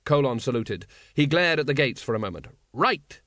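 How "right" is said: barked. A narrator's reading. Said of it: "he barked".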